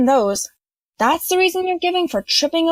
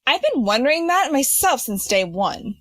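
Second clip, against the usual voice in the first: dry. Acted. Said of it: "a voice said dryly".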